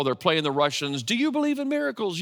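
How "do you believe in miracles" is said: excited sportscaster call, higher; famous call. Retold or imitated. Pastor recalling the broadcaster's call, excited. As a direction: echo the famous hockey call. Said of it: "Al Michaels has his famous call".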